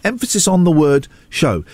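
"show" set apart and emphasised; stress on SHOW. Real, not acted. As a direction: lean on "show" at the end.

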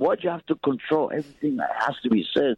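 high, strained, exasperated pushback; heated protest. Real, not acted. Caller protesting to the host who keeps cutting in, heated. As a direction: demand the right to speak, rising up. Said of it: "Just stop getting so angry".

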